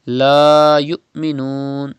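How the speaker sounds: "La yu'minun" with a catch after "yu"; long "La", then cut "yu" short in "La yu'minun"; sudden Hamza stop. Shown as a demonstration. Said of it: "pronounced with sudden pause".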